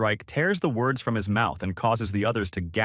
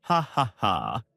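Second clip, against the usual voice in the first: sinister villain voice. Acted. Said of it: "comes his sinister voice filled with self-confidence".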